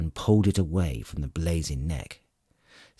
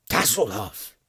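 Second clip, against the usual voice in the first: screaming name; 4 semitones higher than usual. A narrator's reading. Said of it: "Flint screamed".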